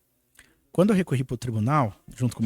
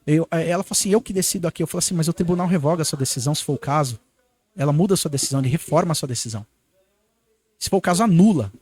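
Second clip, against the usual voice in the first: louder, firm, getting angrier toward the end; heated retort; 5 dB louder, faster than usual. Retold or imitated. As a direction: push back hard at the judge, rising to a loud finish. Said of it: "aí o meu sangue subiu".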